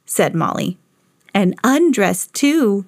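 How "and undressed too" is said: ordinary delivery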